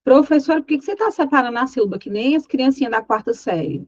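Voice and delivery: quick, lightly voiced student question; mock a student questioning the teacher; imitated student objection.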